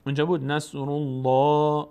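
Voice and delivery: الله with a full, thick l after damma; نصر الله with a heavy lam; heavy Allah. Shown as a demonstration. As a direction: fill out the l of الله.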